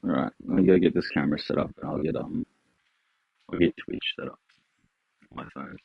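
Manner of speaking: talking around a cigarette; cigarette in mouth. Real, not acted. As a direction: cigarette between the lips, muffled. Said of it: "yes, I have a cigarette in my mouth".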